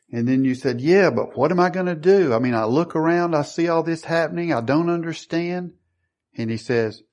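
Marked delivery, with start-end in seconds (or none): 0.8-5.7 higher-pitched, lightly acted protest; mild acted worry. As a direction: voice a believer's worried objection. Voicing a worried believer's objection.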